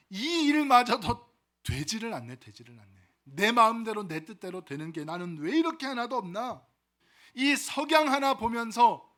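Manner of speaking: mock bitter lament, loud bursts that fall away; acted lament.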